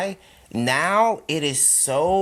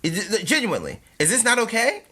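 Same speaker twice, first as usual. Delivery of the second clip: acted puzzlement, rising into the question; halting, mildly incredulous question; bewildered disbelief; 3 semitones higher than usual. Acting out bewildered realization.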